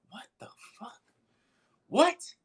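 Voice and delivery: high bewildered question, then loud "What?"; startled dad. Retold or imitated. Dad hearing his child yell about fire, startled and high. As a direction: blurt it in high-pitched disbelief.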